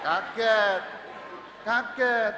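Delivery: high, loud startled cry of shock; startled gasp. Shown as a demonstration. Priest acting out his shock at the crash, startled loud cry. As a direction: act out the jolt of the crash. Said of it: "Ini emang sengaja biar kelihatan kaget begitu".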